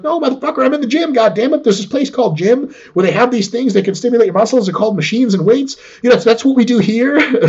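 high-pitched, hammed-up indignation; indignant retort. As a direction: fire back at doubters in mock outrage. Acted indignant retort to rivals.

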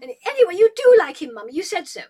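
put-on a spoiled girl blaming Mummy; complaining daughter. Julia blames her mother for the engagement, high whine.

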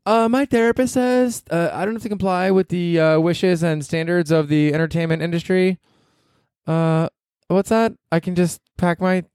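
mock a young assistant demanding her break; whiny mock entitled lady. Mocking the young lady's demand.

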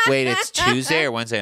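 high, loud mock confusion; imitating confused partner. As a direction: lightly mimic a clueless travel partner. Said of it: "and she's like".

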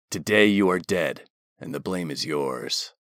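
low, cold commander voice; low and hard, placing blame; stern commander. A narrator's reading.

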